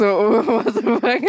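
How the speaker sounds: slow, drawn-out, laughing disbelief; stunned disbelief. Retold or imitated. Reacting to a recording artist liking her post, amazed laugh. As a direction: let the shock sink in with a laugh. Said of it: "Das war schon für mich so".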